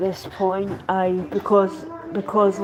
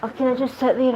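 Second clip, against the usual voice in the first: breathless, puffing between words; out of breath; 3 semitones higher, faster than usual. Real, not acted. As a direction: talk while catching your breath. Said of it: "I'm a bit out of breath".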